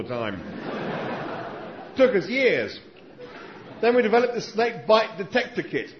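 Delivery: Struan Sutherland. Retold or imitated. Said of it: "my Australian accent isn't very good".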